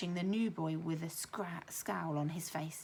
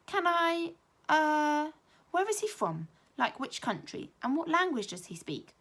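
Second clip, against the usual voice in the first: put-on eager child; 9 semitones higher, 5 dB louder than usual. A narrator's reading. Eager child asking the teacher.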